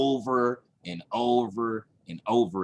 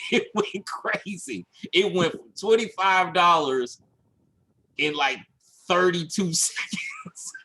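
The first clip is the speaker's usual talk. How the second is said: laughing; 4 semitones higher than usual. Real, not acted. Laughing recalling runaway ad spend.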